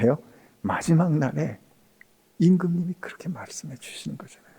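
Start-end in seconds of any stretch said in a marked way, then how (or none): 2.4-4.5 hushed aside to the congregation; whisper. Real, not acted. Pastor whispering the king's words to the church. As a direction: drop to an unvoiced hush.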